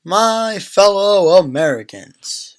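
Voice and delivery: slow, stretched-out address to the nation, badly faked; Barack Obama. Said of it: "I tried doing an Obama accent".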